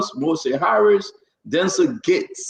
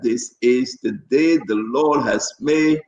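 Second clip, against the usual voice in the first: preacher's proclamation. Real, not acted. Proclaiming scripture on the show.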